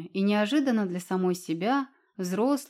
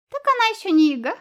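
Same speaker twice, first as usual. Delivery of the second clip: fast, high, much louder giggle; giggling; 11 semitones higher, 9 dB louder, faster than usual. Acted. Invisible fox teasing the cat, giggling. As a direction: giggle it out cheekily. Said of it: "хихикнул невидимка".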